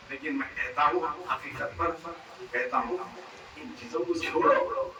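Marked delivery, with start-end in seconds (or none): 3.6-4.9 much higher, breathy, pleading; high urgent plea. Real, not acted. Preacher begging listeners to give it up, high and breathy. Preacher urging, repeated twice.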